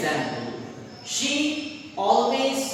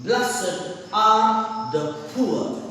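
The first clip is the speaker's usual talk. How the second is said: slow reading; slower than usual. Shown as a demonstration. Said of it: "Let's see the example".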